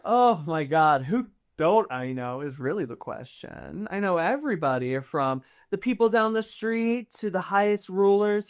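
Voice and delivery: boastful socialite noble. Acted. Noble bragging of connections in the city, boastful.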